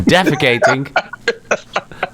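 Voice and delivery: slow, stretched Defecating; a slow, teasing Defecating; drawn out. Pretend. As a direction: drag out Defecating mockingly. Drawn-out joke word.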